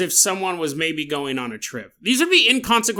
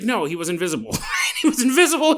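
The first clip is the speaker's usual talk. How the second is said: mock-earnest exclamation; mocking the miracle claim, laughing shout; laughing insistence; 3 semitones higher, faster than usual.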